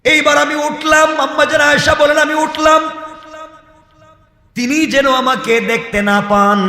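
high, ringing sermon cry; full-force preaching. Acted. High preaching run, Aisha's account. (উঁচু গলায় জোরালো ওয়াজ)

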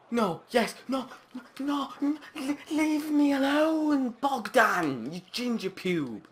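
high, loud anguished yelling; high furious shout. Real, not acted. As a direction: scream at the keeper. Keeper saves, yelling insult.

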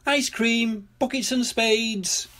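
high, drawn-out vendor's call. A narrator's reading. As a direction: sing out the wares like a shopkeeper. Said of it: "called Miss Rabbit from inside".

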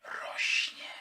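drawn-out voiceless whisper; whispering tempter. Acted. Unseen power promising growing might to the character, sinister whisper.

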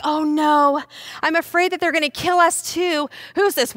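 high, worried wail; acted fretful disciple; still scared. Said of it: "the disciples are still scared".

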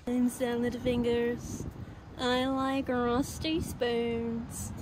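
slow eerie Salad Fingers voice; soft and creepy; creepy slow whisper voice. Retold or imitated. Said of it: "That's a deep cut".

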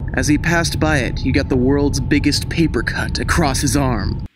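spooky storyteller reading; story narration. Acted. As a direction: read it like a campfire tale. Reads a spooky Halloween tale.

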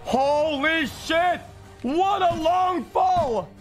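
raging gamer. Real, not acted. Streamer yelling at a fall.

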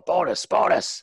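high, gleeful crew chant; crew yelling. Acted. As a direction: yell it out like a cheering crew. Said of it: "they start to yell".

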